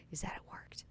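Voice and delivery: quiet, certain whisper; hushed confiding. Real, not acted. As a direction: drop to a near whisper, half breath. Confiding aside about the cure.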